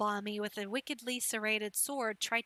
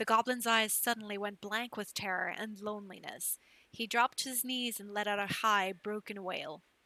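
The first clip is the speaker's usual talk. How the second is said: ordinary delivery, nothing marked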